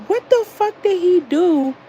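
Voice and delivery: high, loud, incredulous; outraged question. Retold or imitated. Outraged at the strangler, a high, loud "what the fuck". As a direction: demand it in disbelief. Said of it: "I'm like".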